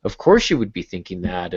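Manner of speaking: starts high and insistent, then settles; lightly voiced eager fan protesting; mimicking female readers. Retelling fans who defend the book, mild high protest. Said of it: "and they're like".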